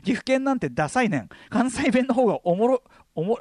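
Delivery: amateur Kansai-ben intonation; fake Kansai accent. Gifu schoolboy scorning his home dialect, fake Kansai accent. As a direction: put on a shaky-footed Kansai dialect. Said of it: "俺もエ-、エセ関西だから".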